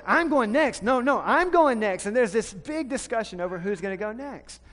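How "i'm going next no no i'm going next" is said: put-on high, loud kids squabbling; arguing kids. Kids at the top of the hill squabbling, louder and higher. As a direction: fight to go next. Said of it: "there's this fight at the top".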